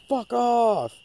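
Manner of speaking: high, loud yell out the car window; yelled fuck off. Retold or imitated. Friend yelling at an armadillo from the car, loud. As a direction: shoo the animal away with a bark. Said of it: "leans down the window and goes".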